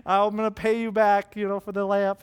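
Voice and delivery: mild mock crying apology; mock bawling. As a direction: plead like a sobbing little kid, half-hearted. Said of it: "She's just bawling".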